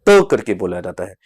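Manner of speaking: त said as a soft dental t, not थ. Shown as a demonstration. Teacher to students: त as a soft dental t. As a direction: make the त dental and unaspirated. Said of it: "English में इसको".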